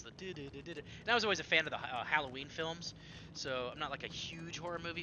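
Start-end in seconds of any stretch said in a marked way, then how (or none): 0.0-0.8 quiet sung-out theme notes; imitated game music. Gamer describing the music starting, imitated tune. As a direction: softly imitate a creeping music cue. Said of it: "the music starts".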